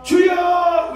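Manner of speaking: long high loud cry; long shouted cry. Shown as a demonstration. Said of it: "길게 해야 훈련이 돼". (길게 외치는 주여)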